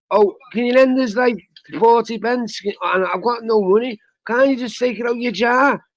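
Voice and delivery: mock the mates who beg from the jar; whiny scrounger. Mimicking friends begging to borrow from his savings jar, whiny and pleading.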